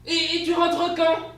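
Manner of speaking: high, loud, slow stammering question; stunned question. Acted. Wife asking husband leaving when he'll return, shocked. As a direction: ask it in shocked disbelief.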